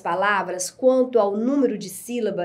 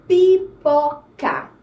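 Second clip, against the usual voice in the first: slow, syllable by syllable: pi-po-ca; read-along teacher voice, pipoca spelled out slowly; 5 dB louder, much slower than usual. Shown as a demonstration. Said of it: "Leiam comigo a palavra".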